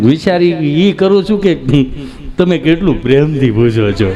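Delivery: lightly played flustered patient; a hint of bashful stalling; nervous friend. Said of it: "તમે ગભરાવશો શા માટે".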